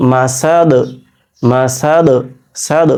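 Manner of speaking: "মাসাদ" stopped with a bouncing release on the final "দ"; measured recitation of "মাসাদ" with a released final d; echoed final d. Shown as a demonstration. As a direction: let the d of "সাদ" echo briefly after the stop. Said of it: "দেখেন কলকলা হয়ে যাচ্ছে".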